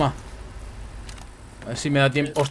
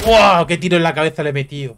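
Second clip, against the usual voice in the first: excited. Real, not acted. Reacts to landing a headshot.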